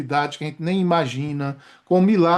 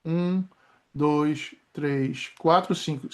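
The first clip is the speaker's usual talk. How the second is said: slow breath count; 4 semitones lower, 5 dB quieter, much slower than usual. Shown as a demonstration. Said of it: "vou inspirar de novo".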